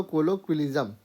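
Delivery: teacher repeats कोलोक्विलिज्म for pupils; कोलोक्विलिज्म said softly for repetition; repeat for the class. Shown as a demonstration. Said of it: "एक बार फिर से बोलो".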